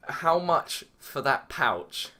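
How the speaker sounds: slow, lightly put-on London street voice; mock the roadman's slow street talk; a hint of a street accent asking to buy the bag. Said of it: "comes up to me in, like, I'm not even sure what accent, like, fully street".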